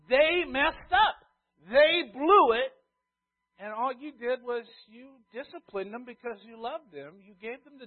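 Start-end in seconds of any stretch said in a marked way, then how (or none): 0.1-2.7 emphatic preaching. Real, not acted. Pastor stresses children's fault.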